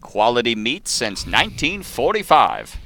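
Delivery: slow announcer read; like a 1950s radio ad; old-timey radio voice. Pretend. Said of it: "The old-timey radio voice".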